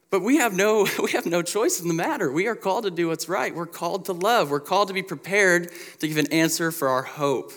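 loud, high, emphatic preaching; fervent preaching. Real, not acted. Pastor urging the congregation, loud and fervent. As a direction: drive each line home to the church. Preacher driving the point home.

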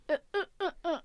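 halting, stuck on repeated sounds; imitated stutter. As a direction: imitate words that won't come out. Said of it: "it becomes it the stuttered way".

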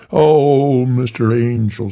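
high, breathless eager greeting; high fawning reverend; Tiny Tillman voice. Acted. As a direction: pitch it up, eager to please. Tiny at the door.

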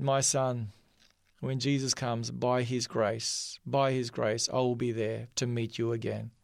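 low, softened, understated emotion; retold tearful promise. Grandfather to his grandson at their parting, tenderly tearful. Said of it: "with tears streaming down his eyes".

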